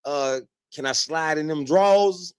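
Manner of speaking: a mock casual hey-how-you-doing, sliding in sly; mock smooth guy. Hamming up the guy slyly greeting her after ten years. Mocking the guy's pickup line.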